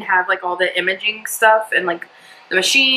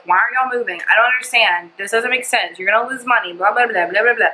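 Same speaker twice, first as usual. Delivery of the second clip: mildly worried singsong nagging; mock freaking out; 2 semitones higher than usual. Imitating her mom fretting about the move, mock freaking out. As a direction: imitate mom fretting, trailing into rhythmic blahs. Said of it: "she was, like, freaking out".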